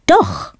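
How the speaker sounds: doch dropped low and firm; emphatic doch. Shown as a demonstration. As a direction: say "doch." deep and final, cancelling it out. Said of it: "be super positive, use".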